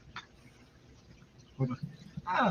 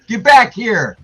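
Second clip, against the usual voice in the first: raised, louder mock command; higher-pitched joking order to return; playful call-back; 4 semitones higher, 6 dB louder, much slower than usual. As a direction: call after someone leaving, jokingly insistent. Calling after departing host.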